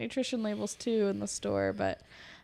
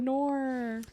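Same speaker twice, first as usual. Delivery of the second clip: mock Australian accent; 4 semitones higher, 3 dB quieter than usual. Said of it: "make fun of Australian people saying 'Nor.'".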